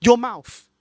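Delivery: slow, loud shut your mouth; loud, slow angry retort; sharp retort. Real, not acted. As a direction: slam the door on it. Snapping at imagined fan.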